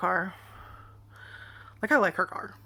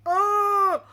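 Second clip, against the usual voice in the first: high, loud mock scared gasp; imitated startled cry; frightened yelp; 13 semitones higher, 6 dB louder than usual. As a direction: act out sister's fright at a bug. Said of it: "bugs mean".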